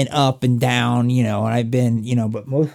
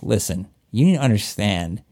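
low, grave movie-style warning; mock-serious Southern warning; confidential warning; 4 semitones lower than usual. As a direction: take him aside and warn him, imitating a film local. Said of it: "the guy takes him aside".

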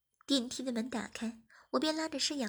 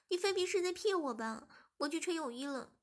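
put-on higher, sulky young woman; lightly voiced accusing girl; 4 semitones higher than usual. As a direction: call him out, half pouting. (略带嗔怪的少女)

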